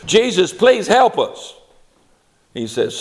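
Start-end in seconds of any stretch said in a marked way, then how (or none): 0.0-1.5 high, loud mock pleading; hammed-up anxious prayer, pitched way up; acted desperate plea. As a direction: cry out for help in pretend panic. Acted panicked prayer for help.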